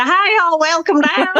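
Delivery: high-pitched mock Alabama drawl; Alabama accent. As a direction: greet visitors in a hammed-up Alabama accent. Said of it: "they go down to Alabama".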